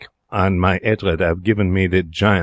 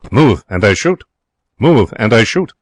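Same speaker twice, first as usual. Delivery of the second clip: a hard, louder warning in the dark; threatening voice; 5 dB louder than usual. Acted. Hidden parrot threatens the sleeping cashier, loud and menacing. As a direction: threaten the intruder, firm and loud.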